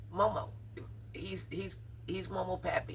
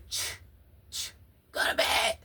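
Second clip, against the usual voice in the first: mock hushing mother; 4 dB louder than usual. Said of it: "You was like".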